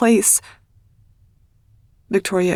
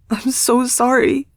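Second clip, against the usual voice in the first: anguished cry; 5 semitones higher than usual. Acted. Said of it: "I cry, the words torn from my chest".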